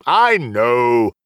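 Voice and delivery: understanding, drawn-in reassurance; kindly cutting off an apology; gentle, smiling. Acted. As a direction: say it with a gentle smile. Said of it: "said with a gentle smile".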